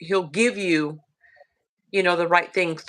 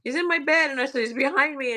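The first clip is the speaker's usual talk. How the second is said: put-on scared child; 6 semitones higher than usual. Scared child telling mom about demon.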